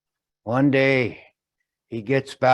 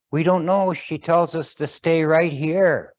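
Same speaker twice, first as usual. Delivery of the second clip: put-on boys' voice; 5 semitones higher, 4 dB louder than usual. Boys answer father.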